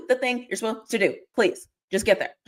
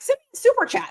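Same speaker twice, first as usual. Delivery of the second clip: mock begging; 12 semitones higher than usual. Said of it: "I'm not even being like".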